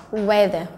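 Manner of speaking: "weather" with an open e in the first syllable; slow model "weather" with short e; short E vowel. Shown as a demonstration. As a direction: say "weather" clearly with an e sound. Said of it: "nó là âm E".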